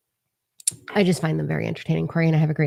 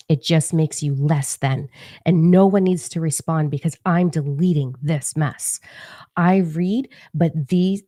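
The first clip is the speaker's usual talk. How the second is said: prim scolding lady; slower than usual. Retold or imitated. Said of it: "this lovely lady decided to write".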